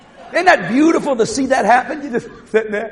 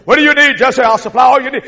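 firm, insistent offer of help; lightly voiced strong, providing God; real strong God; 4 dB louder than usual. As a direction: press the question with authority. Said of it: "he's real strong".

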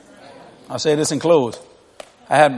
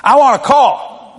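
put-on slow, whiny, higher kid voice asking for a car; mock kid demand; 6 semitones higher, 5 dB louder, slower than usual. Preacher mimics a kid begging dad for a car, whiny. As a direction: play the greedy kid, drawn out.

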